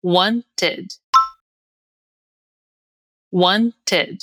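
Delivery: "Wanted" for repeating, WAN-ted with falling end; model pronunciation. Shown as a demonstration. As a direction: carefully separate "Wanted" into two syllables, second unstressed. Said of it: "repetir depois de mim pra pegar bem". ("Wanted" articulado para o aluno repetir, "ed" fraco)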